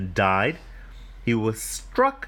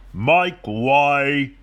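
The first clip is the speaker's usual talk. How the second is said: yelled; 6 dB louder than usual. Acted. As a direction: yell it as a pushy limousine. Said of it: "yelled a limousine".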